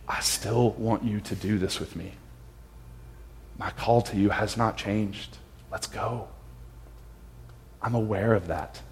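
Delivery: softly voiced, patient invitation; soft, tender retelling of Jesus' words; gentle reassurance. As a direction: reassure quietly, as Jesus calling a friend back. Jesus gently renews call to Peter.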